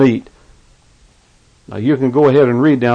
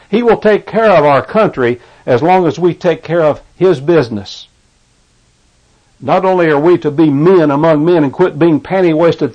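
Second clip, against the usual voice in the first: steady fervent preaching cadence, pressing each point home. Acted. Preacher urging Christians to multiply and take dominion, fervent preaching. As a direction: preach it to the congregation with conviction. Radio preacher exhorting listeners.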